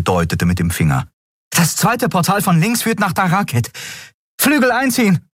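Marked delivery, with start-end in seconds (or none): 1.5-5.3 high, urgent command; urgent order. Acted. Endriel ordering Nelen to fold wings, high and urgent. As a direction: snap out the order.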